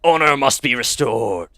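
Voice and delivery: a lightly voiced gruff orc man; orc male voice. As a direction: read it as a grizzled orc sailor. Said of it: "I was actually not all that off with the, uh, orc male voice".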